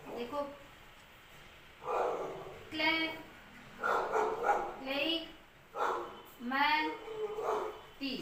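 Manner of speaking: "क्ले, क्ले, मैं, टी" each syllable alone with long pauses. Shown as a demonstration. Teacher sounding out calamity for students, one syllable at a time. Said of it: "ये हो गया क्लेमिटी".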